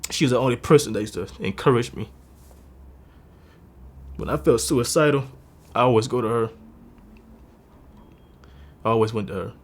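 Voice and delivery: pushing the words out while trying not to cry; fighting tears. Real, not acted. Speaking to viewers about his late grandmother, close to tears. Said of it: "I trying to cry".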